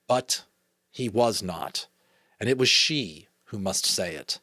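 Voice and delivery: measured read-aloud storytelling; story narration. A narrator's reading. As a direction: read a children's novel aloud.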